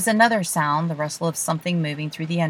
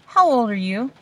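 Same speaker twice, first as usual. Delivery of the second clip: challenging; 6 semitones higher, 5 dB louder than usual. Acted. Quarrel between children.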